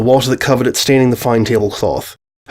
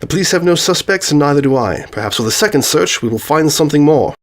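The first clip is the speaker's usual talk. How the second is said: lightly acted detective setting out a case; a hint of a keen detective, somewhat higher; lightly voiced Holmes, earnest; 4 semitones higher than usual. Holmes speaks in dialogue.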